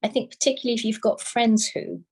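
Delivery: reassuring retold quote, lightly acted; nice, understanding. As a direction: gently imitate an understanding doctor letting a patient down. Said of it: "she does it really nicely".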